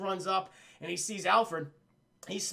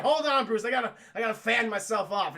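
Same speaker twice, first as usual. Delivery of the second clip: flustered butler; 2 semitones higher, 5 dB louder than usual. Retold or imitated. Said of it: "He's like".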